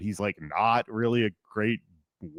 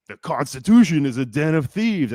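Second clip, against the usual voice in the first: raised, higher mock yell; retold yell; 5 semitones higher, 6 dB louder than usual. Heckled speaker who just keeps going, retold yell. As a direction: keep yelling over the booing crowd. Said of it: "he yells it a third time".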